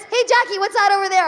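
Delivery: high, sly distraction voice; mock ex-boyfriend. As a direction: trick her into looking away. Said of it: "He was like this".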